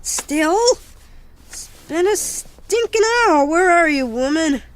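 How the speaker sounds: fed up after an hour of waiting; exasperated complaint. Acted. Kid fed up waiting for mom.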